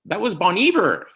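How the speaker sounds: imitated excited reveal, high and loud. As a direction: mimic a friend's big announcement, pitch soaring on the band's name. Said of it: "The way he said Bon Iver".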